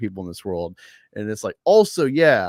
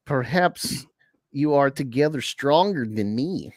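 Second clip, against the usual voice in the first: trailer voice; 3 semitones higher than usual. Shown as a demonstration. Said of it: "read this like the trailer".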